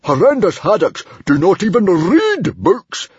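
high, loud emphatic outburst; furious decree. A narrator's reading. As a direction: thunder out the rule indignantly. Enraged father lays down the rule.

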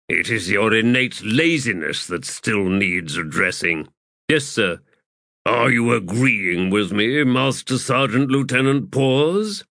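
a hint of a stern officer, slowed; measured, dry rebuke; stern Fist Kindly. Fist needling his lieutenant, a hint of slow sternness.

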